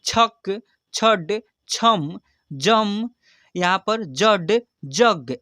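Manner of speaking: each word read in one go; quick reading. Shown as a demonstration. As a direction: read the whole word at once, no spelling. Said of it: "अब एक बार इसको फटाफट से जल्दी पढ़ते कैसे हैं". (एक बार में जल्दी पढ़ना)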